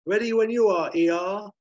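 high, loud call back; Lucky shouting up. Acted. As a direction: holler cheerily to someone up on a platform. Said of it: "Lucky shouting up to Aykroyd".

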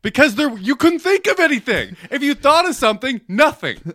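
laughing ribbing of a blanking cohost; mocking laugh. Real, not acted. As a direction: tease him through laughter. Mocking partner's blank mind.

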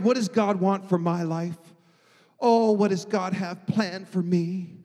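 whiny, pleading prayer. Shown as a demonstration. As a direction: whine it like a needy prayer. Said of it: "I say it with that kind of whiny voice".

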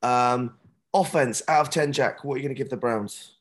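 hoarse, worn-out voice from shouting. Real, not acted. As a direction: speak with a voice lost from cheering. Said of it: "I've lost my voice from cheering and shouting".

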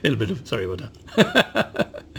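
amused apology, still giggling; laughing apology. Real, not acted. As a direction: say sorry through laughter. Apologising for spraying while laughing.

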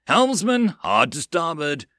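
high, loud urgent order; yelling. Acted. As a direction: yell across the deck. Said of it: "Numu yelled".

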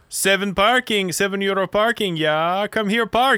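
high mock German accent, slowed; hammed-up German parking attendant; a playful German-accent caricature of a parking attendant. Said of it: "I'd picture this guy going".

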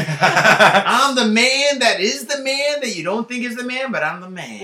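laughing through a cocky boast. Real, not acted. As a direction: boast while cracking up. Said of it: "laughing boast".

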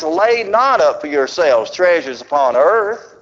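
slow, solemn King James reading; measured scripture recital. Acted. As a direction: let each clause settle. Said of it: "he says".

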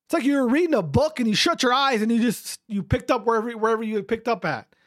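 normal talking voice

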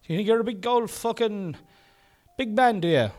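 high-pitched mocking heckler; squeaky inner critic butting in; heckling alter ego. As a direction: needle the host in a high put-on voice. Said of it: "the same person".

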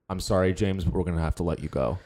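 low, cold firing line; firing someone. Shown as a demonstration. A boss coldly firing James, low and flat. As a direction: deliver the layoff like a dead-eyed boss. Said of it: "say this with me".

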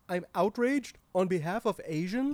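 badly faked, understated outrage; unconvincing outrage. Boss objects on behalf of Asians, unconvincingly outraged. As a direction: claim outrage with no force behind it. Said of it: "You don't sound outraged".

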